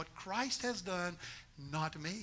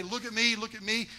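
showing off; 3 semitones higher, 4 dB louder than usual. Retold or imitated. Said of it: "smuggle our character back".

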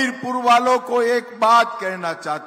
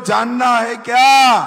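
shouted question, much louder; louder rally shout; 6 dB louder than usual. Shown as a demonstration. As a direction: belt it out to rouse the crowd. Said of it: "अरे जोर से बोलो".

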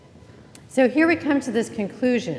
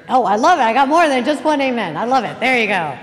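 delighted; 2 semitones higher, 8 dB louder than usual. Real, not acted. Delighted by loud amens.

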